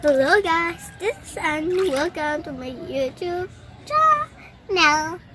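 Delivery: fuller, projected channel greeting; one-month student demo. Shown as a demonstration. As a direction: greet clearly, stretching out the final words. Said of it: "Ganito ang boses ko. One month boys, lasos".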